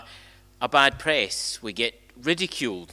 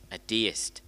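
"A deist." whispered, much softer; whispered repeat; 4 semitones lower, 6 dB quieter than usual. Shown as a demonstration. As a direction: echo the answer in a whisper. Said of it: "here's the answer".

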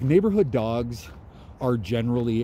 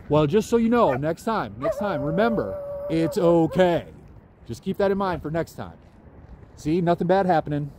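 mock lecture to dog; 5 semitones higher than usual.

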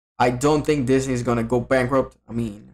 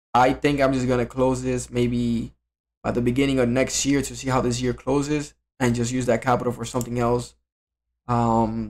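slightly shaky voice from jiggling legs. Real, not acted. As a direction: let the voice wobble a little. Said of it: "so probably my voice sounds shaky".

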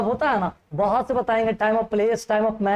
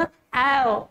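disgusted eh. Shown as a demonstration. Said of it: "बोलो ना".

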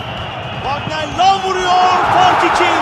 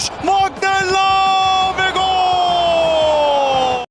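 screaming football commentator; much slower than usual. Real, not acted. Goal call in live commentary.

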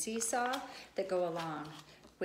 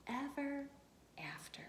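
whispered ending; 5 semitones higher, 5 dB quieter than usual. A narrator's reading. Story ending softly.

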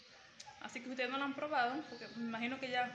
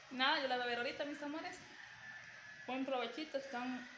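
talking with a full mouth; words around a bite of food; chewing while talking. Real, not acted. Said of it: "estoy hablando con la boca llena".

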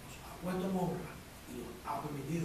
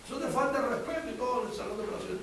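dramatic warning; 10 semitones higher, 6 dB louder than usual. Retold or imitated. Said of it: "coworker warns about Blue".

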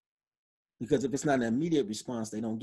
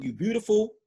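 a lightly voiced flattering call, a bit higher; mock sweet compliment; 7 semitones higher, 4 dB louder than usual. Showing how he could compliment a woman, lightly playful. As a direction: sweet-talk her, half-joking. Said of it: "I could say".

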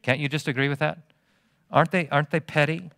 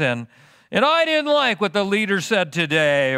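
higher, whiny church-member gripe; mock petty complainer; 6 semitones higher than usual. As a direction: lampoon a fussy congregant's complaint.

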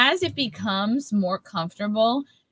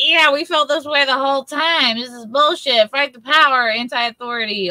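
higher-pitched mock bandwagon bravado; mock rebel comedians; 4 semitones higher than usual. Mimicking comedians claiming they felt this way all along, mock-defiant. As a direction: lightly send up comedians suddenly acting defiant. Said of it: "comedians are gonna be like".

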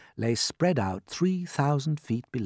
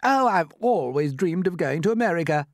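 raised-pitch, eager centipede; excited cry; 5 semitones higher, 4 dB louder than usual. Acted. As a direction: cry it out like a dream come true. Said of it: "cried the centipede".

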